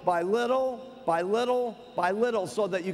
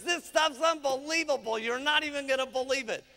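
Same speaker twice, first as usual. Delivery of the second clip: gushing, raised-pitch sales enthusiasm; eager acted testimonial; excited; 4 semitones higher than usual. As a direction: rave like a happy customer. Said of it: "you're very excited about the products".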